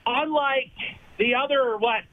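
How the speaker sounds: winded, short of air while talking; out of breath. Real, not acted. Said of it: "I'm out of breath".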